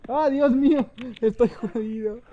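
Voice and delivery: panicking while chased; being chased. Real, not acted. (pánico al ser perseguido)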